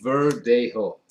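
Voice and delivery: Verdejo repeated for the viewer to echo; say it together. Shown as a demonstration. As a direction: lead the viewer in saying Verdejo. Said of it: "Can we say it together?".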